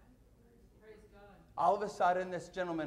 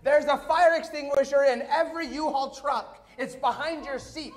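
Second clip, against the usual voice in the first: high, loud mock shout; retold stranger's yell; 7 semitones higher, 5 dB louder than usual. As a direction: imitate a stranger yelling urgent advice. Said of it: "some stranger yells".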